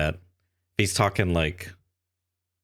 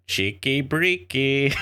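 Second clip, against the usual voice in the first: slow, drawn-out mock Russian accent, pitched up; bad Russian accent; 7 semitones higher, much slower than usual. Podcast host joking about game voice lines, bad Russian accent. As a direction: ham up a bad Russian accent on both words. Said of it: "In really bad Russian accent".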